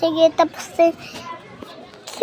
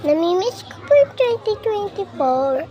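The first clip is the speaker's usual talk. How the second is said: tearful. Real, not acted. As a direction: voice catching with tears. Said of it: "naiiyak po ako".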